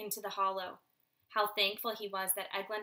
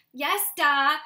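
bored; 5 semitones higher, 11 dB louder than usual. Acted. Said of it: "Clud said in a bored voice".

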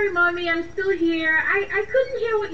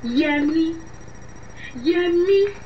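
angry calls; slower than usual. Acted. Calling him angrily repeatedly.

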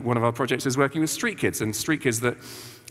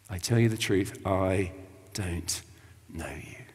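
softer and lower, dying away to a whisper on know you; ominous fading whisper; 7 semitones lower, 5 dB quieter, slower than usual. Retold or imitated. The bridegroom shutting out the late girls, fading to a whisper. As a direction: let the verdict sink into a hush. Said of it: "And they heard this horrific pronouncement".

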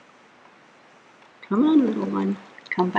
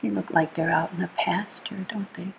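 quick unvoiced whisper; fast hushed bedtime whisper; 6 dB quieter, faster than usual. Real, not acted. Whispered aside to sleepy child.

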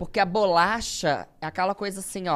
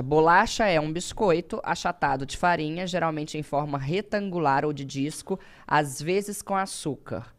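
reading aloud. Acted. Reads dictionary entry aloud.

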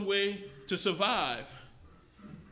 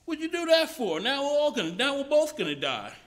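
high, loud betrayed shout; frog's panicked outcry; 8 semitones higher, 7 dB louder than usual. Acted. Frog in the fable shouting at the scorpion that stung him, panicked. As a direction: cry out as you realize you're doomed. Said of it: "And the frog says".

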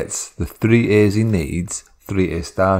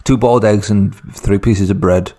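domineering. Acted. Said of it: "really domineering over his dad".

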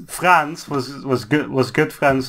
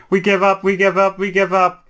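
higher, whiny repeated surrender; mock surrendering Germany; 5 semitones higher than usual. Comic history retelling, Germany whines its surrender, higher and hammed. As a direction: beg to stop, hammed-up. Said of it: "and then Germany was like".

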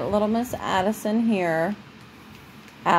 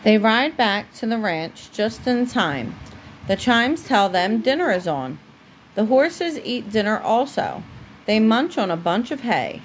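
steady storybook reading voice; reading to a child. Acted. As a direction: read it aloud for a little one at bedtime. Parent reads a story aloud to child.

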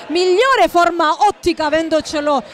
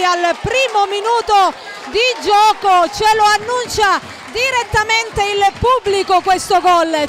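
excited goal call, higher pitch; breathless italian goal commentary; 3 semitones higher than usual. Real, not acted. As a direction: raise the voice for the equaliser. Goal just scored, crowd roaring.

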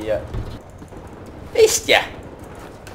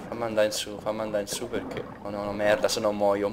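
breathless; 5 semitones lower, 10 dB quieter, faster than usual. Real, not acted. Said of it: "Respira, respira".

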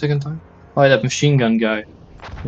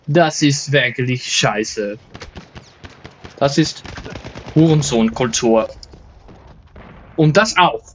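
mock German bro rant. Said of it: "I will speak German at one point".

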